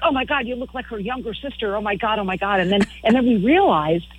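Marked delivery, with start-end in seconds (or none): 0.0-2.6 excited fan. Retold or imitated. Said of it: "they were like".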